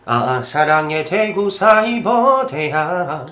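slow singer impression of an ad jingle; impression of a singer. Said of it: "형님은 그냥 가장 쉬-, 쉬운 걸로 갈게요".

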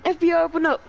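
high mock police shout; FBI raid shout. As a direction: bang on the door, FBI style. Playful FBI raid call.

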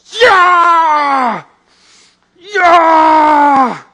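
loud, high triumphant yell; victory shout. Retold or imitated. David holding Goliath's head, loud victory yell. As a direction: roar it like holding up the trophy. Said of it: "and he goes".

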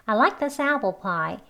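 LIKE lifted, then down through "apple pie"; slow model sentence with up-and-down tune; rising and falling intonation. Shown as a demonstration. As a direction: let the tune rise and fall across "I like this apple pie". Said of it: "이렇게 억양이 있지요".

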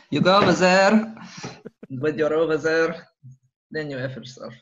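angry dad. Retold or imitated. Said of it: "retelling the dad's line".

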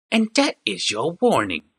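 slow snarling threat; a goblin warning the old man. A narrator's reading. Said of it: "said the goblin with a snarl".

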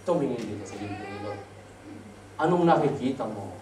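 a quiet, low heavenly voice in a dream; voice from the clouds. Acted. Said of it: "Sabi ng boses". (mababa at mahinang tinig mula sa ulap)

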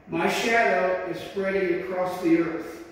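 slow, solemn proclaiming; lightly voiced, grave and measured; voice of the Lord. The Lord speaking to the preacher, slow solemn words. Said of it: "I don't talk like that".

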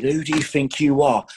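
imitating a raging manager; retold angry rant. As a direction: act the gaffer losing his temper at a player. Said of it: "he went ballistic".

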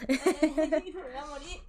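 slow words through laughter; dying of laughter; laughing. Real, not acted. Friend cracks up.

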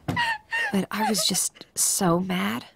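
hushed unvoiced confession; whispering. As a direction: whisper it, ashamed. Teen confessing after hitting.

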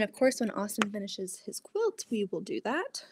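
ordinary talk

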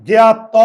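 জ্ঞাত said as গ্যাত, jaw shut; pronounced gyat. Shown as a demonstration. Teacher showing students জ্ঞাত as গ্যাত. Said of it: "তাহলে আমার উচ্চারণ হয় কি?".

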